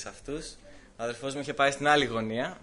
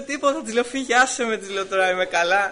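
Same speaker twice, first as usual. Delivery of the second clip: put-on upset child; 8 semitones higher, 7 dB louder than usual. Crying boy brushes off mother.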